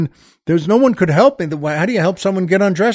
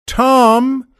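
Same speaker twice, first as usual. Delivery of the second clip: ordinary talk, nothing marked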